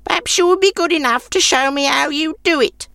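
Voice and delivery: put-on high, grudging old crone; an old woman shooing off a guest; sour old woman.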